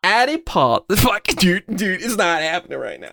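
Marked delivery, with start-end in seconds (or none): 0.0-0.8 higher, half-hearted British accent; attempted British accent. Shown as a demonstration. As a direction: copy a British accent, not quite getting it. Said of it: "I don't think I can do a British accent".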